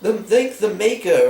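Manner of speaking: fussy butler robot; C-3PO impression. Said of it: "the one that goes".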